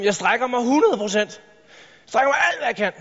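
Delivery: slow, drawn-out self-assurance; talking yourself into it, slowly; self-convinced. Retold or imitated. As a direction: stretch it out like you believe it. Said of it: "Hvor du bilder dig selv ind".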